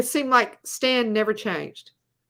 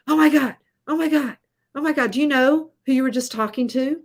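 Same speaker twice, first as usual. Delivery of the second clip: breathless excited gush, a little higher and louder; 3 semitones higher, 5 dB louder, faster than usual. Retold or imitated. Colleague retelling a friend's starstruck rush, excited gushing. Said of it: "He goes".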